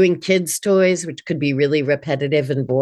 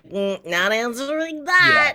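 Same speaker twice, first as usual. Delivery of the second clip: dismissive; 9 semitones higher, slower than usual. Retold or imitated. Dismissing spam call.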